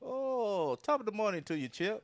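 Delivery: a cheesy stage Irish greeting; mock Irish accent. Asked by his cohost for an Irish accent, mock Irish greeting. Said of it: "Give me that Ireland accent".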